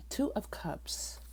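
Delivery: slow, soft whisper of the card name. Real, not acted. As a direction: breathe the card name out slowly. Whispering the drawn tarot card.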